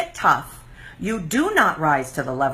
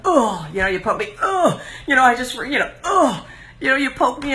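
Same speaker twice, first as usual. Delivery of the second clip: irritated reactive grunts; 6 semitones higher than usual. Retold or imitated. Mocking her old reactive self, annoyed ughs. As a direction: huff out ugh like a poked amoeba. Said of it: "I was very reactionary".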